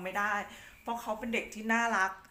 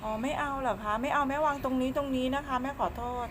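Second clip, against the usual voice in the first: higher, coaxing pet-talk voice; small high voice for soothing a pet; cutesy small voice; 5 semitones higher, 3 dB louder than usual. Real, not acted. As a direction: coo apologetically to an upset cat. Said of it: "แม่ทำเสียงเล็กเสียงน้อย".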